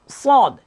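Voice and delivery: সদ and বদ held long and high, drawn-out vowels; sustained recitation. Shown as a demonstration. Teacher drilling the letter sound for the class. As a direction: chant each সদ slowly for students to copy. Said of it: "শেষের".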